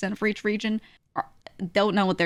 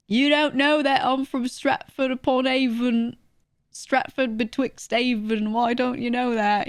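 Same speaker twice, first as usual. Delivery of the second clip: higher, drawn-out, affronted British; mock British accent; 5 semitones higher, slower than usual. Brit aghast you don't know Stratford, mock British indignation. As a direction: play an outraged Brit, hammed up.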